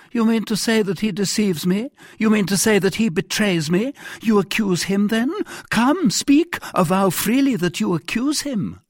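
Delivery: high, insistent, challenging monarch; agitated king. Acted. King pushing captain to accuse the cardinal, agitated.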